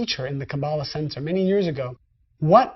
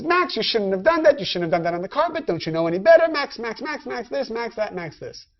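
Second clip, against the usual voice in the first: mock scolding; 2 semitones higher than usual. Comic owner scolding dog.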